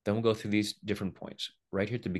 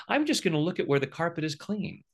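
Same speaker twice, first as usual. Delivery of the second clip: mock denial; 10 semitones higher than usual. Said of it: "you don't say".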